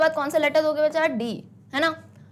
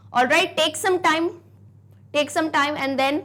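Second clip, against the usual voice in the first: drawn out; 2 semitones higher, much slower than usual. Real, not acted. Teacher gives class time.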